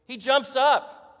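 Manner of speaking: slow, loud burst on jumps; excited. Retold or imitated. Preacher telling the congregation of the leap, loud and slow. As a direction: hammer out the jump, big and slow. Dramatic retelling of healing.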